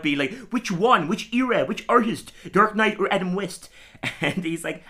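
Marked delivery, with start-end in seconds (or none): 0.5-3.7 high, frantic questions; higher, louder fussing; stressed nerd. Retold or imitated. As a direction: fire off each question in a panic. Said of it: "he gets really stressed out".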